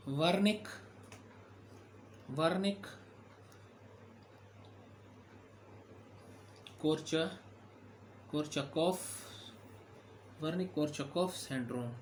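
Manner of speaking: वर्निक कोर्चकॉफ sounded out in parts with long pauses, then whole; pronunciation demonstration. Shown as a demonstration. Teacher showing students a complicated disease name, वर्निक कोर्चकॉफ pronounced piece by piece. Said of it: "मैंने आपको pronounce करके बता दिया".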